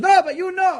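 high, loud, pushy comeback; insistent mock retort. Woman caller insists he knows Wall Street's filth, loud and high. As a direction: fire it back like she won't budge.

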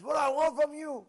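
loud, high accusing shout; retold angry father. Father shouting at son for cursing his mother. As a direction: accuse him sharply.

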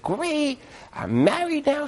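very high, soft boasting tone; gushing newlywed. Retold or imitated. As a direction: coo it like a proud new bride. New wife answers happily.

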